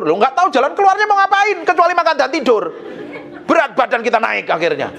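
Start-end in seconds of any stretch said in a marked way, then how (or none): 0.0-2.6 high-pitched mock protest; protesting retort. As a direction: argue back in a raised pitch. Acted retort to his wife. (membantah dengan nada tinggi)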